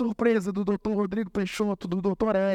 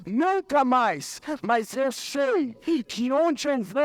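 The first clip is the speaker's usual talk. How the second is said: drawn-out phrases climbing higher in pitch; fervent preaching; 4 semitones higher, slower than usual. Real, not acted. Preacher asking the congregation if they believe, fervent and rising. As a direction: build to a slow, searching challenge.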